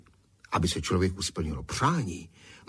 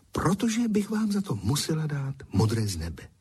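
whispered; 7 semitones higher than usual. Acted. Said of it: "špitla".

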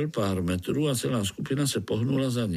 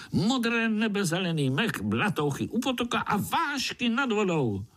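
high, eager little voice rallying the others; high-pitched spider cheerfully calling his friends; 12 semitones higher than usual. Acted. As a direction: call out to the spiders as a small hero. Pája describes the forest.

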